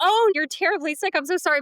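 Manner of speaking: mock concern cracking into giggles; laughing through it. Daughter on the phone playing along with mom, laughing through the sympathy. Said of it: "But I'm, like, laughing".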